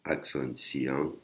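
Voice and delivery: Akson Siang détaché mot par mot; répété lentement. Shown as a demonstration. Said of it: "donc les lettres phonétiques". (prononciation lente et appliquée)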